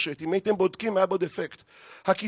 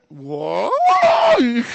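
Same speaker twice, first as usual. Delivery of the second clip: long wailing cry; 3 semitones higher, 6 dB louder, much slower than usual. Acted. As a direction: blow up into a drawn-out mock wail. Nagging friend's list ends in wail.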